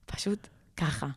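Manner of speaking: לוחשת בדרמטיות; כמו סוד בלחישה; לחישה. Real, not acted. Tense moment in the story. (לחישה דרמטית באמצע הסיפור)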